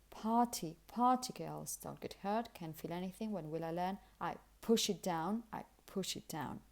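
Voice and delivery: song lyric spoken, "Party" with puffed p; aspirated p and t. Shown as a demonstration. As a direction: recite it, breath on the p of "push". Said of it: "see this aspiration being present".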